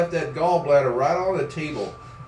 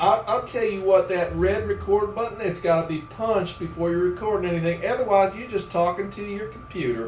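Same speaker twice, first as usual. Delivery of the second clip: folksy advice in a put-on drawl; mildly hammed-up country drawl; brother's country drawl. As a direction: lecture like a country good old boy. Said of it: "he talks like this every time".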